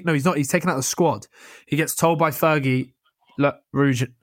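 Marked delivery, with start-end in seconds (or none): 3.4-4.1 badly faked Scottish accent; terrible Scottish accent. Fergie telling Ruud he's out of the squad, terrible Scottish accent. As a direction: imitate a Scottish manager with a poor accent. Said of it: "That's a terrible Scottish accent".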